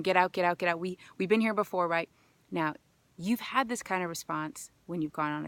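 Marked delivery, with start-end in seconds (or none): 0.0-0.8 urgent repeated get out; mild mock alarm, get out; body says get out. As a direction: voice the body pushing her out. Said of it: "body is going".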